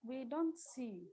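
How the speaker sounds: speaking very softly, fading out; barely audible. Real, not acted. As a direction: voice dropping too low to hear. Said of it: "your voice is very low".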